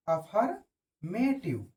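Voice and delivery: अफर्मेटिव drawn out very slowly; slow dictation. Shown as a demonstration. Teacher repeats the word slowly for students to copy. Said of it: "repeats word slowly".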